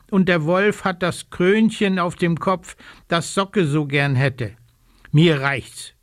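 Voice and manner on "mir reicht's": a mild croaky outburst, slightly louder; croaking. Acted. Little raven fed up with the thieves, mild croak. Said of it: "krächzt der kleine Rabe".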